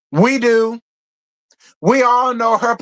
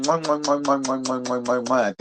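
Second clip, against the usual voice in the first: soft kiss sounds, dropping lower and quieter; blown kisses; 7 semitones lower, 5 dB quieter than usual. Real, not acted. Streamer blowing kisses to donor Brandon, softly. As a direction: blow kisses down the mic. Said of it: "Thank you, Brandon".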